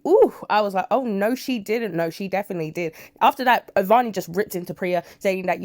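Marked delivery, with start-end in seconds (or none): 0.1-2.0 high, slow mock outrage on oh no she didn't; shocked gasp. Real, not acted. Vlogger reacting to a daughter's insult, scandalised. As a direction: ooh high and loud, then draw out the disbelief.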